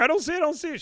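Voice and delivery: high, loud character quote; high-pitched retold cry; acted-out character. Retelling a character's lines.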